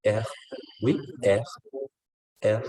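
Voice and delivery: "ah" closing on a French throat R, as if running out of air; guttural French R at the end of "ah"; airy French R. Shown as a demonstration. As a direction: let the end of "ah" fade into airy friction. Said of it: "como si se quedara un poquito sin aire".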